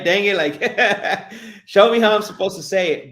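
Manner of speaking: high, loud frustration through laughter; mock exasperated plea. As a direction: plead with the coach, half laughing. Retold frustrated plea to coach, laughing.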